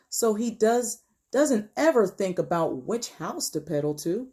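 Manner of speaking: put-on measured, expressive story narration for children; read-aloud storytelling. A narrator's reading. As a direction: read it to young listeners, stretching key words. Reads picture book aloud.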